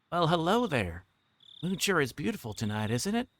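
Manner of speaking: a touch of a coy lady greeting; Takano's voice. Acted. A hint of a coy woman greeting the startled kids.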